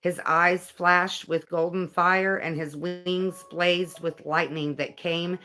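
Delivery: earnest, measured narration; guidebook reading. Acted. Reading about an angel's visit to viewers, earnest read-aloud. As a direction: read it out with deliberate phrasing.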